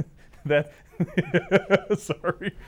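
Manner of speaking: laughing at own joke; giggling between words; cracking up mid-line. Real, not acted. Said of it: "laughing at my own joke".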